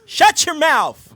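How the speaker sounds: slow, high, loud wail of a shout; mock loud outburst. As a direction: bellow it slowly like a mock tantrum. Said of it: "It's so loud".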